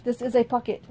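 even, mechanical robot voice. Pretend. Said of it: "The robot to Candace".

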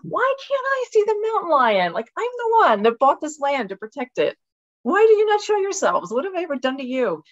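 high, loud comic outrage at the lions; mock indignant. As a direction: plead with the hidden mountain lions like a spurned friend. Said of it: "I'm like".

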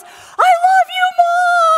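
very high, stretched-out yell; imitating a child's all-out shout; shouted declaration. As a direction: holler it to the whole school. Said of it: "like a declaration, right, in the school".

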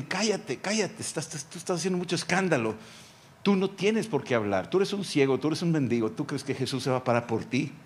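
a hint of a scornful crowd hushing him; scolding crowd. Crowd scolds the blind beggar to shut up, mock scornful.

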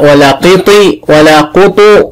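قيطي and قطو said slowly, each vowel tried out; sounding out vowels. Shown as a demonstration. Teacher testing vowel options on قط for the pupil, slowly. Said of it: "ما ينفعش طا".

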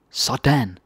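"Sådan" lifted up, a pleased there you go. Shown as a demonstration. Teacher showing a pleased, cheering Sådan. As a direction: cheer someone on. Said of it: "So many different intonations".

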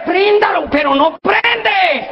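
exasperated, with a laugh; frustrated. Acted. Desesperado, el carro no prende. (desesperado porque no prende)

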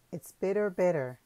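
loud, high festive shout. Acted. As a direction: call it out to the couple. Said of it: "shouted the people".

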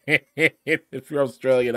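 slow words broken by real laughter, Australian jab; laughing through an apology, drawn out. Real, not acted. Vlogger laughing at his own Australian accent jab, slow.

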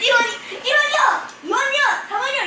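auction bidders shouting prices; calling out bids. Retold or imitated. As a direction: call out each bid like at an auction.

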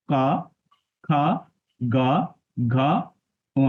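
ক, খ, গ, ঘ, ঙ each with a voiced vowel after it; consonants with vowel. Shown as a demonstration. Teacher showing how letters are read, ক, খ, গ, ঘ, ঙ as consonant plus vowel. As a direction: recite "ক, খ, গ, ঘ, ঙ" as separate open syllables. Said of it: "ব্যঞ্জন বর্ণের সঙ্গে স্বরবর্ণটাকে".

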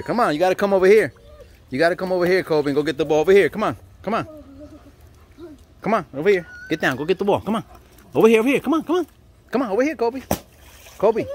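high calling voice across the pool; calling from far away. Real, not acted. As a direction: call the dog from across the pool.

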